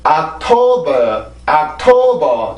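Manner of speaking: 옥토버 dragged out evenly with no beat; flat stressless rhythm. Shown as a demonstration. Teacher demonstrates Korean-style rhythm, slow and flat. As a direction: say 옥토버 flat, all one level. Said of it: "강세라고 하면".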